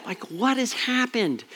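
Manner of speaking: soft, laughing aside. Real, not acted. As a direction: chuckle it out under your breath. Laughing at his own tears.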